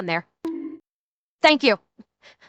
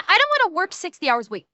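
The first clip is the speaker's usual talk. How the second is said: quick, higher mock whine; mock complaining; 4 semitones higher, faster than usual. Streamer mimicking a woman griping about long hours, mock complaining. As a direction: imitate a complainer in a rush. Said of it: "she's bitching".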